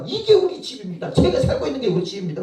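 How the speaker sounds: very high, rushed boast; acted proud excitement. Missionary showing church the house photos, imitated excited boasting. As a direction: imitate someone showing off their new home.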